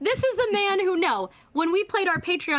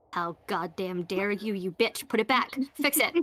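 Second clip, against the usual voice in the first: mock angry reader; 5 semitones lower, 4 dB quieter than usual. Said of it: "my readers are like".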